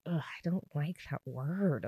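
a lightly put-on voice of distaste; mild mock grumble about a word; disgusted groan. Telling viewers how she reacted to the word, a lightly voiced disgusted ugh. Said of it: "I was like".

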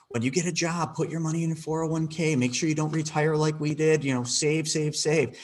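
a mild mock of well-meaning elders; grandparents' advice. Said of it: "What do your grandparents tell you".

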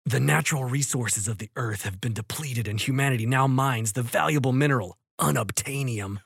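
dramatic trailer narrator, lightly done; movie trailer voice. Shown as a demonstration. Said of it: "Let me get in my trailer voice".

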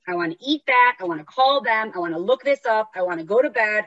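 a touch demanding, insistent list of wants; inner asshole voice. Acted. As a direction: reel off each impulsive want, a little pushy. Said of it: "the inner asshole mind voice".

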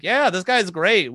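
high, loud, drawn-out approval; mock enthusiasm. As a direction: gush as an uncritical fan. Voices history approving of Gandhi.

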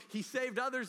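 loud, high, sneering jeer; jeering crowd. Retold or imitated. The crowd taunting Jesus on the cross, loud high jeer. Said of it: "the mocking in their tone".

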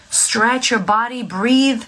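normal talking voice

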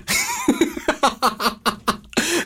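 a soft, rising, breathy laugh. Real, not acted. Host laughing at her own joke, softly. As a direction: let a quiet laugh slip out.

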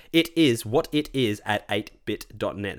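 "it is what it is at eight bit dot net" word by word; careful enunciation. Shown as a demonstration. Host making sure listeners get the email address right, careful enunciation. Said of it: "make sure everyone gets it right".

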